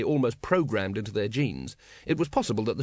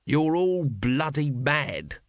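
slow, emphatic mock shout; exasperated, held-back yell; 2 semitones higher, much slower than usual. A narrator's reading. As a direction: stretch it out like a restrained shout. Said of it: "shouted Vimes".

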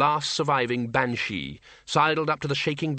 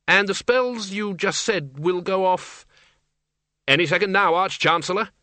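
anxious Dean; 6 semitones higher than usual. Acted. Dean warns the Archchancellor.

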